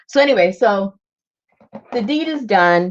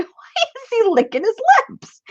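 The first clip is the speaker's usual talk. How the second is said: high rising baffled question; puzzled question. Retold or imitated. Retelling watching the dog, high puzzled question. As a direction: wonder aloud, puzzled. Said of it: "And I'm going".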